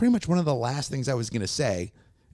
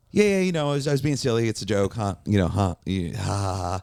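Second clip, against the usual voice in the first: nervous laughing excuse. Retold or imitated. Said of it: "And I go".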